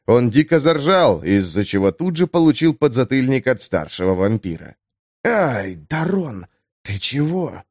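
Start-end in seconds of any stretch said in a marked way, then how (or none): 5.2-7.6 plaintive squeak. A narrator's reading. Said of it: "жалобно пискнул Дамиан".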